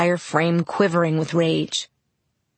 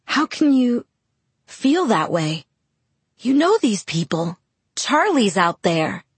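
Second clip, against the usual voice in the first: revulsion; 4 semitones higher than usual. Acted. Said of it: "My voice was pale with revulsion".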